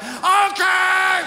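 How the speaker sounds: very high, loud mock shout; exclaimed okay. Imagined attacker answering the devil's message later, high exclaimed okay. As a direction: blurt it out high and drawn. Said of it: "you're gonna be like".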